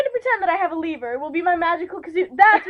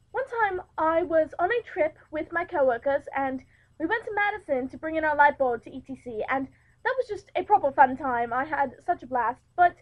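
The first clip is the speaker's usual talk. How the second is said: storytelling in a put-on English accent. Host telling her anecdote of a work trip, put-on English accent. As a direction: recount it in a light English accent. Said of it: "if I start talking in an English accent also".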